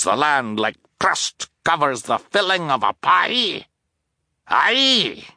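worked-up captain, questions swinging high; indignant blustering captain. A narrator's reading. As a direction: fire off indignant rhetorical questions.

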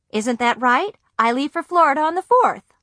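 pressing them, getting worried; anxious insisting. A narrator's reading. Girl anxiously repeats her plan to silent parents.

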